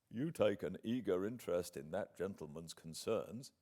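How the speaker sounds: a sting of jealous irritation under control; a proud man nettled by mention of his rival. Acted. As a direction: let the calm slip a little. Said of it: "in a less tranquil tone".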